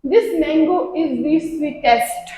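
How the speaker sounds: slow, deliberate example sentence; slow example read. Shown as a demonstration. Teacher reading the example to students, slow and deliberate. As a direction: read each word out slowly. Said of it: "example".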